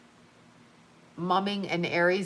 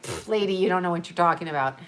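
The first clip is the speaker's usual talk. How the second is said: dismissive hikers; 3 semitones lower, faster than usual. Retold or imitated. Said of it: "they just look at you like".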